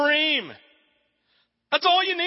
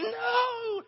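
high, pained cry of no; catcher's despairing cry; anguished yell; 11 semitones higher, 5 dB quieter than usual. Retold or imitated. The catcher protesting the call, high anguished yell. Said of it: "the catcher going".

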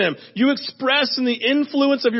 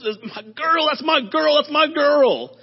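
proud cheering; 4 semitones higher than usual. Retold or imitated. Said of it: "just goes".

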